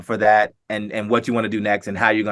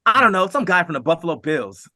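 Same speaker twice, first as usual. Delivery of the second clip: offhand; 6 semitones higher than usual. Retold or imitated. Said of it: "she says it just like that".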